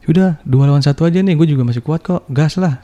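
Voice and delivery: joking offer. Retold or imitated. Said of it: "saya bercanda gitu kan".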